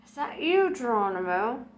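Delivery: a coy theatrical question; Madame Tracy voice. Acted. Medium asks herself theatrically.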